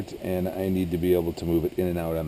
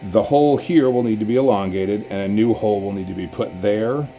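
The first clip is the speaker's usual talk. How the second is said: raised voice over yard noise; yelling over leaf blower; 2 semitones higher, 4 dB louder than usual. Real, not acted. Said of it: "Sorry for the leaf blower".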